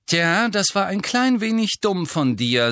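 loud, high-pitched angry rebuke. A narrator's reading. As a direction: lay into him angrily. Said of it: "sagte Ginny zornig". (zornig, laut und hoch)

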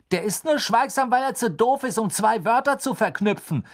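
gruff and loud, high pitched. A narrator's reading. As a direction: snap it dismissively. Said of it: "sagte Fred unwirsch".

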